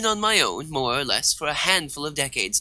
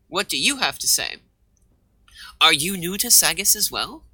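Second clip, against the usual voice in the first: ordinary talk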